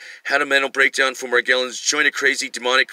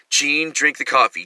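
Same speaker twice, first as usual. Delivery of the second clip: slow insistent order; 2 semitones higher, slower than usual. Retold or imitated. Mel's final coaxing order.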